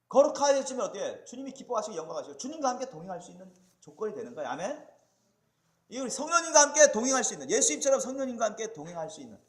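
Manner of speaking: loud, emphatic sermon delivery; forceful preaching. Real, not acted. Preacher urging believers to walk with the Lord, forceful preaching. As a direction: press it home to the congregation.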